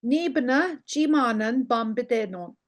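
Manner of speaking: "Ni bna, chimanen, bambidenon" in separated, careful chunks; careful learner's pace. Shown as a demonstration. Teacher modelling "Ni bna chimanen bambidenon" for learners, carefully spaced. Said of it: "you would normally say it".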